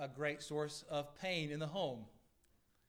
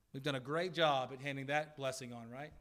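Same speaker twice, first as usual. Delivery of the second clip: understated mock praise; sarcastic. Real, not acted. Preacher teasing parents about passing on grumbling, mildly sarcastic. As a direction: say it as dry, tongue-in-cheek congratulation. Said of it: "That was sarcasm".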